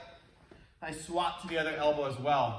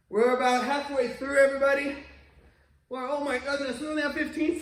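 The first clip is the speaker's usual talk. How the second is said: pumped-up coach call; 7 semitones higher, 5 dB louder than usual. Real, not acted. Coach hypes class mid-set.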